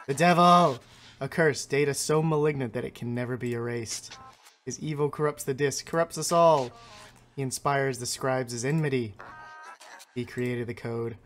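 a hint of ancient, pleased beings; slightly grand creature voice, savoring the pelts; lightly voiced pelt-hungry creatures. Creatures greeting the trapper who brings pelts, lightly grand. Voices game scribes' text.

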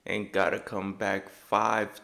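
slow, spelled-out disbelieving repeat; slow disbelief. Real, not acted. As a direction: repeat each word, stunned.

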